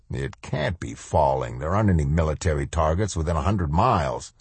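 quick, curt snap; snapped. Acted. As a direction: snap it back impatiently. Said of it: "Sergeant Becker snapped".

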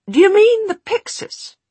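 baffled. A narrator's reading. Henry puzzled by Mortmain's question, baffled. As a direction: ask in honest confusion. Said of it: "Henry looked baffled".

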